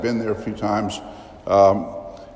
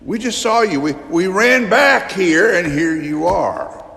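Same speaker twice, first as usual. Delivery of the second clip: much higher, breathless amazement; excited disciples; 7 semitones higher, 3 dB louder than usual. Acted. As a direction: tumble the words out in wonder. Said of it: "everybody's excited".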